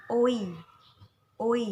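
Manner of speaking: loud, clear oi glide; clear oi sound. Shown as a demonstration. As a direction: model the oi sound. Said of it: "itu dibacanya oi". (ucapkan bunyi oi dengan jelas)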